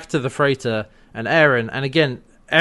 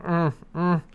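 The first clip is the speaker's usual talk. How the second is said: small strained grunt; light imitation of struggling; soft mock grunts of effort; 4 semitones higher, 4 dB quieter than usual.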